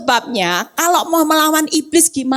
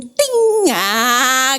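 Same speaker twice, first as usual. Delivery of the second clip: smile sparkle sound. Shown as a demonstration. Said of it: "Kasih senyum".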